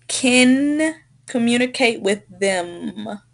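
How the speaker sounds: "kin" and "them" with held final n and m; demonstrated final nasals. Shown as a demonstration. Teacher models N and M for a student, held endings on "kin" and "them". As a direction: linger on the last sound of "kin" and "them". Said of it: "you should pronounce".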